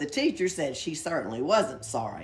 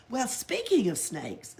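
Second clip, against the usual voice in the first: slow, higher storyteller voice; slow, raised tall-tale start; drawn-out tall-tale opener; 6 semitones higher, 4 dB louder than usual. Acted. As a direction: stretch it out like a boast.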